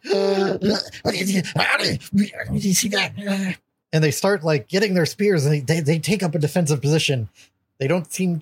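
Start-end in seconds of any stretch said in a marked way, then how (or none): 0.0-3.6 high startled creature gasp; surprised creature. Acted. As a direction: blurt it out in shock. Creature exclaims at illusion.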